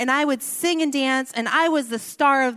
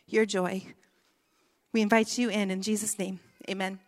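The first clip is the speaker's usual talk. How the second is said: prayer. Real, not acted. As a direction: pray over the room gently. Leads a prayer.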